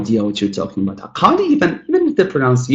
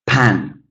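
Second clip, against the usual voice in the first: "pan" said as the strong syllable; more effort. Shown as a demonstration. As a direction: give "pan" full weight. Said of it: "putting a lot more effort".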